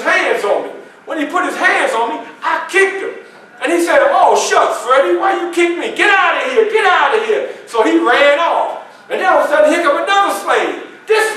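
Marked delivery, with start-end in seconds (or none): 4.1-7.5 higher-pitched yelp of complaint; acted indignant protest. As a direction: protest like someone just kicked. Acted kicked man's protest.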